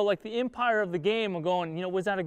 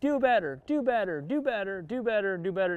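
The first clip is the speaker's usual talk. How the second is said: nagging mother-in-law. Retold or imitated. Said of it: "the mother-in-law that just keeps saying".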